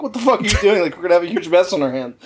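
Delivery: high-pitched retold exasperation; mock-frantic disbelief; exasperated. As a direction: imitate a worker at his wits' end, voice pushed up. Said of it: "honestly pulling his hair out".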